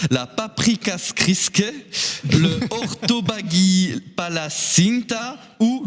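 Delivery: paprikaskriske and palacinta said slowly, feeling out each syllable; struggling pronunciation. Shown as a demonstration. Host reading tricky Hungarian dishes, slow and careful. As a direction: pick your way through the Hungarian names. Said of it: "je vais avoir du mal à le dire ça".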